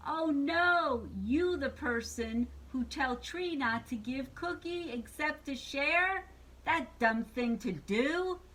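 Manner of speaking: slow down into an outraged question; indignant Cookie Monster. Acted. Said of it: "He's yelling at the witch".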